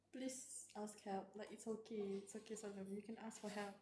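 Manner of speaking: very soft, hushed reassurance; gentle pleading. Real, not acted. Fan urging Solemn to ask for help, gently pleading. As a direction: plead softly, barely above a murmur.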